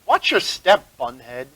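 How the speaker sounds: lightly snide jab; a touch of sneering superiority. Acted. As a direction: say it as a mildly snide put-down. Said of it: "you hear a snide voice".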